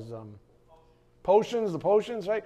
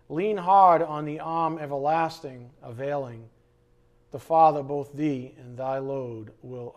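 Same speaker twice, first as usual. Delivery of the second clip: poem recital. Acted. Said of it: "So this is called".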